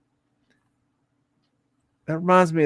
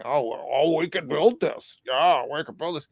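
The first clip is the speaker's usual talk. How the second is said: tag pending. Retold or imitated. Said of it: "this is his thing".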